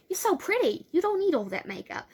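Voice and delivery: put-on high, loud girly gush; gushing compliment. Girl reassuring Frankie about her looks, gushing. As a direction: pitch it up and gush like an admiring friend.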